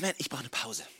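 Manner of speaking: Jesus tired of the crowds, asking for rest; weary sigh. Pretend. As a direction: say it like you're spent.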